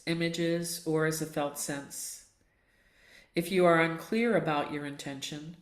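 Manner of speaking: calm, measured guiding voice with long pauses; guided meditation. Acted. Yoga teacher settling the class into Yoga Nidra, calm guided meditation. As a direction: ease them gently into stillness, leaving space between phrases.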